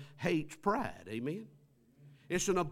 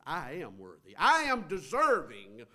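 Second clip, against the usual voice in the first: mock arrogance; 3 semitones higher, 6 dB louder than usual. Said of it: "arrogance and in pride when they approach".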